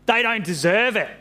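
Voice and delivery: put-on Aussie accent. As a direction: protest as an Aussie Jonah. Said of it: "Aussie accent".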